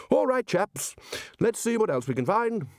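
rally the chaps heartily; hearty Ridcully. A narrator's reading.

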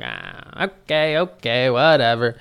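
retold resigned giving-in; grudging surrender. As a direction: back off with a mock "whatever". Retells backing off after hit.

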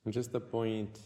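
unhurried meditation guide with long pauses; guided meditation. Acted. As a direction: guide the listener inward, leaving long silences.

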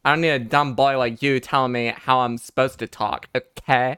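a lightly put-on valley girl, mock-sassy. A mild valley girl voice telling off her dumb cohost. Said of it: "that's how girls from the valley talk".

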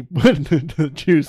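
laughing through the words; can barely get it out for laughing. Real, not acted. Laughing while retelling scene.

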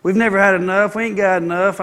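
whiny complaining murmur; lightly voiced complaining Israelites; mock grumbling. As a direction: gripe like a doubting crowd. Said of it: "they murmured and complained about everything".

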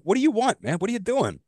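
high, incredulous cry; hammed-up what do you want; mock outraged. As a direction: demand it, thrown by the phone. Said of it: "I'm like".

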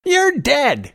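put-on very high, loud child's shout; little boy crying out. A narrator's reading. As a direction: shout it like a boy firing a toy pistol. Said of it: "he cried".

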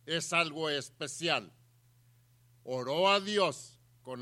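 loud, measured declamation with weighty pauses; forceful preaching. A narrator's reading. Preacher telling how Ana prayed and wept, forceful. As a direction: proclaim each phrase separately to the congregation.

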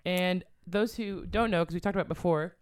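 words around a sip of pop; while sipping a drink. Real, not acted. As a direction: talk between sips. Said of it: "sorry, I'm drinking pop".

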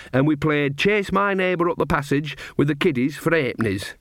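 put-on a knowing old granny sharing gossip; Nanny Ogg. Nanny to Magrat, gossiping about Esme, old woman voice.

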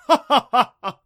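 high, very loud hearty laughter; booming laugh. A narrator's reading. Thunder god delights in his pick, laughing boomingly. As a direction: laugh hugely, spilling into speech. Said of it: "let out a booming laugh".

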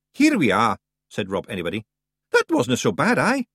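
a cocky wee Scots fighter; tiny Scots warrior. Acted. Rob arrives at the cave.

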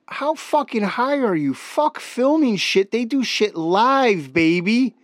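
high, incredulous ribbing. Real, not acted. Mocking friend's stoned theory.

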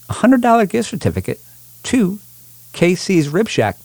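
big game-show prize call; booming prize announcer. Acted. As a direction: hype the prize up high. Hypes the prize on the radio.

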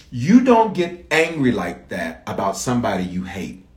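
measured, emphatic teaching delivery; slow and deliberate. Real, not acted. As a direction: spell it out slowly so everybody gets it. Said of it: "I'm gonna say it slowly".

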